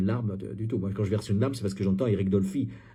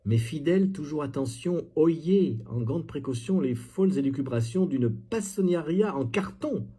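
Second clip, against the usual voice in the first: slightly raised declamatory reading; mocking, pompous recitation; mock poem recital; 4 semitones higher than usual. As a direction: read it out like overblown verse.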